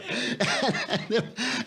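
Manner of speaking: hearty laugh at his own punchline; real laugh. Real, not acted. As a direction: burst out laughing.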